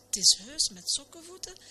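high, pleasantly moved exclamation; mildly acted touched surprise. A narrator's reading. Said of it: "zei de dominee getroffen".

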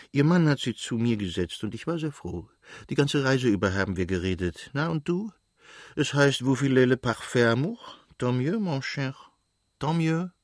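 lightly voiced chatty old countess; a hint of an old countess teasing her son.

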